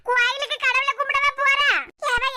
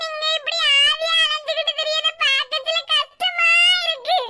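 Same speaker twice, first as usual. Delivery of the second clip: mock lament; 3 semitones higher than usual. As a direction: cry out the sorrow like a staged mourner. Mock mourning over husband.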